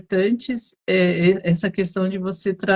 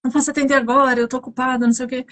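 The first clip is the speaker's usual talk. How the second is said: higher-pitched imitation of a client's brush-off; busy client; 5 semitones higher, much faster than usual. Busy client putting off the seller, imitated in a higher voice. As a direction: play a client too busy for the call. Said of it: "às vezes o cliente fala".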